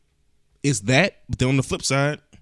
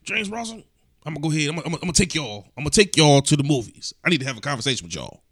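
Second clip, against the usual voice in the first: imitating his pop; 3 semitones higher, faster than usual. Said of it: "This is how he talk".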